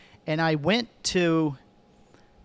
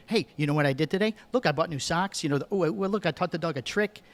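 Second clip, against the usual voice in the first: mock-eager show-and-tell, hungry for someone to talk to; a little excited; 2 semitones higher than usual. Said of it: "but a little excited".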